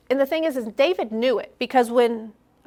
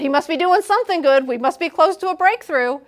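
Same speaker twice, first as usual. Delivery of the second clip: hopeful; 6 semitones higher, 5 dB louder than usual. Pretend. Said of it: "He keeps bringing up this one thing".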